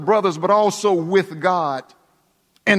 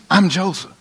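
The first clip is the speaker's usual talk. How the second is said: firm declaration. Acted. Joseph declaring himself plainly to his brothers, firm. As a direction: announce "I'm Joseph" with force. Joseph's reveal repeated stronger.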